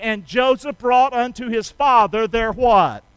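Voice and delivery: slow, emphatic call-and-response; preacher cueing the congregation to answer; say-along. Shown as a demonstration. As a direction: lead the crowd through it word by word. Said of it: "say that with me".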